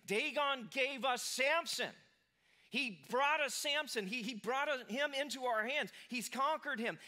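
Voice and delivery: loud, high, slow jubilant praise; triumphant Philistines. Retold or imitated. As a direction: cheer it out like a crowd thanking its god. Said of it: "they're going, it's like".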